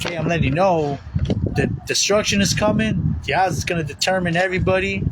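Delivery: lightly acted coach; coach's warning. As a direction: warn the team what is coming. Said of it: "but it's a coach".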